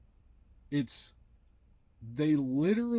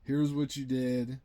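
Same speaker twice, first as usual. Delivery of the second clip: calm telling. Retold or imitated. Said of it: "I very calmly am like".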